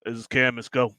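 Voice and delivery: hint of a gruff commander; lightly gruff radio voice. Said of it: "a gruff voice like".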